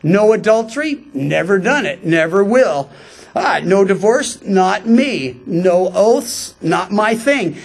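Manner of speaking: breezy, self-satisfied list with little pauses; mildly smug mock self-approval. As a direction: tick each one off smugly. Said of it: "those who would smugly look at the law".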